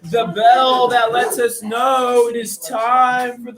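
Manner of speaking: slow, grand mystic announcement; mystic fortune teller. Acted. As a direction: announce the magic like a showman. Mystic announcing the magic bell.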